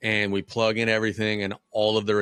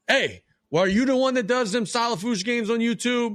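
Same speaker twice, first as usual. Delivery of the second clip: angry parent; 12 semitones higher than usual. Retold or imitated. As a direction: call him out like an angry parent. Angry parent voiced in story.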